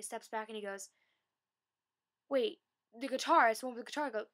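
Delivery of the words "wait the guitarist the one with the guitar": surprised realization. Retold or imitated. Jared realizes who she is.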